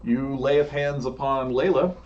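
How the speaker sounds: dramatic scene setting with long pauses; measured, suspenseful storytelling; game master narration. Acted. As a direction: draw out the big moment, leaning on the vivid words.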